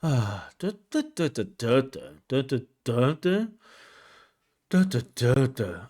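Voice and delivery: dull flat da da da, no energy; bored monotone demo. Shown as a demonstration. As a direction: sound utterly bored by the topic. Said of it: "if you ask me about something boring, it's gonna sound like".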